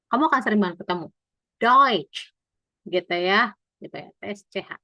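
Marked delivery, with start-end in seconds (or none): 1.6-2.3 "Deutsch" ending in a ch sound; louder "Deutsch", closed with crisp tch; TSCH like C. Shown as a demonstration. Teacher giving a familiar example, final tch in "Deutsch". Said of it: "T S C H ini bacanya kayak C".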